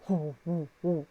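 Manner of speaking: wind noise. Retold or imitated. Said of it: "you'll hear that".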